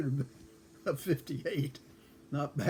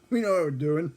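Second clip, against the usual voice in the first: laughing brush-off; 2 semitones higher, 7 dB louder than usual. Retold or imitated. Drunk driver brushes off Jack.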